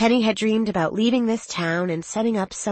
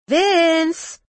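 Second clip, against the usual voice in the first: loud, high call across the bar; 11 semitones higher, 5 dB louder than usual. Acted. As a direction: yell to a coworker. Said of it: "she called out".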